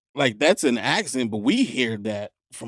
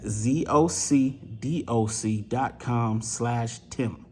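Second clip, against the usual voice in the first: slow spelled-out URL; much slower than usual. Shown as a demonstration. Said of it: "spelled out URL".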